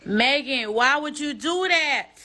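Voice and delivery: high, drawn-out exasperated plea; exasperated reproach. Real, not acted. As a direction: reproach her with a stretched, rising pitch. Pleading reproach to absent performer.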